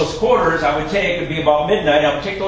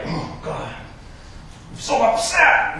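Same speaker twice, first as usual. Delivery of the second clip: mock upset; 5 semitones higher, 6 dB quieter, slower than usual. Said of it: "You know, like".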